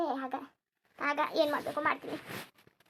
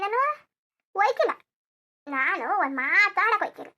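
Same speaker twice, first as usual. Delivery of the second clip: louder, strained complaining outpouring; loud aggrieved lament; 7 dB louder than usual. Acted. To her daughter about her ungrateful children, loud aggrieved lament. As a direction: vent every grievance at full volume. Mother pours out grievances loudly.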